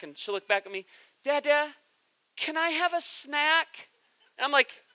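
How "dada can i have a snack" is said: put-on higher, slow, squealy little girl begging; squealier child voice. Three-year-old daughter begging dad for a snack at bedtime, squealy and higher. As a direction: drag it out like a toddler pleading for a snack. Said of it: "her voice gets a little bit louder and a little bit squealier".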